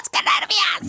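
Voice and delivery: fast, bubbly rush of nerves; gushing with nervous excitement; excited. Real, not acted. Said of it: "estoy emocionada".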